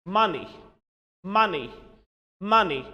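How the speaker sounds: MONEY said "MUH-nee"; MONEY, stressed first syllable, short ee ending; modelled pronunciation. Shown as a demonstration. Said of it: "And the sound system is".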